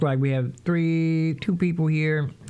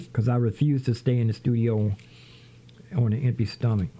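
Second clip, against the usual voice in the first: mouth full; 2 semitones lower than usual. Real, not acted. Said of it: "I'm gonna be talking with my mouth full".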